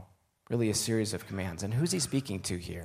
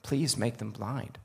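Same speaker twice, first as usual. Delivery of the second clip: slow, measured prayer; prayerful; slower than usual. A narrator's reading. Elisha praying as the army advances, slow and prayerful. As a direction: draw the plea out slowly. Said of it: "Elisha prayed".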